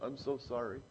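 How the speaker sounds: a dog groveling, fading to near silence; meek apology. Retold or imitated. The dog apologizing to his master, fading meek voice.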